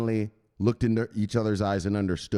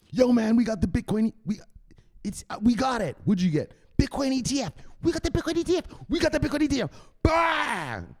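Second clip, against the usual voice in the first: much higher, near-tearful yelling; ecstatic celebration; 11 semitones higher than usual. Real, not acted. Telling friends about the Bitcoin ETF, ecstatic high yelling. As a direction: cry out the good news.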